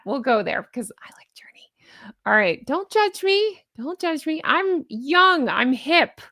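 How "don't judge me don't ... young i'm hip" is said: high-pitched playful protest; mock defensive. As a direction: plead jokingly in a raised pitch. Mock defensive plea, then admits not.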